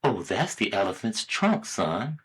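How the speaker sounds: a hint of a mother explaining to her child. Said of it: "the little boy asks his mother".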